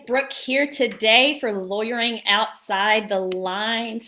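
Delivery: hoarse, worn-out voice; raspy voice giving out; losing voice. Real, not acted. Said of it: "I'm losing my voice".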